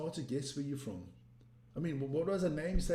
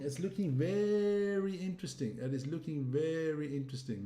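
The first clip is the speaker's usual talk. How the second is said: "very" stretched out long; emphatic stress on VERY. Real, not acted. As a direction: draw out "very" for emphasis. Emphatic remark on the league standings.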